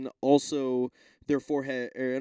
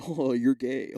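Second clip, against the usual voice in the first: Shane Gillis impression; 2 semitones lower, 3 dB louder, slower than usual. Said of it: "I'll just be Shane Gillis".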